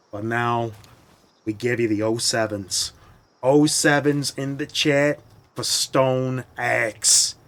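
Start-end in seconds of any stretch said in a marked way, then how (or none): 2.0-7.4 mock solemn salute. Mock salute to broken axe.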